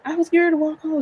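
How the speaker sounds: very high-pitched protest; high, hammed-up plea; reenacted plaintive daughter. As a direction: act out complaining to mom. Daughter pleading to arriving mom.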